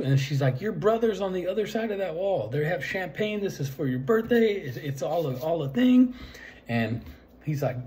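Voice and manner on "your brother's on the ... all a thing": high-pitched mock girl's voice; imitated pleading explanation. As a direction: retell her explanation in a high, rising voice.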